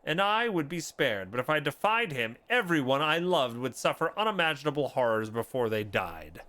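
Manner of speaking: lightly voiced guilt-ridden knight, measured and earnest; remorseful confession. Player voicing a knight confessing his guilt, remorseful.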